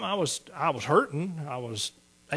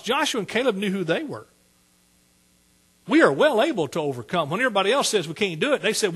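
louder preaching that climbs to a shout; rising preaching; 3 semitones higher, 6 dB louder than usual. Acted. Pastor exhorting the church about Joshua and Caleb, loud preaching. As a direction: drive the point home from the pulpit.

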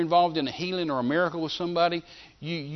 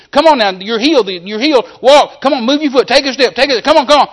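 high, loud insistent yell; preacher yelling at a paralyzed man to walk; 9 semitones higher, 13 dB louder than usual. Retold or imitated. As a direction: drive him to move with a yell that keeps climbing. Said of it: "I'm just yelling at him like this".

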